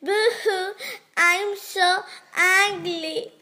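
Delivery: hammed-up boo-hoo sob; mock blubber over being ugly; duckling hiding in bushes, fake crying; crying loudly. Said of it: "he cries loudly".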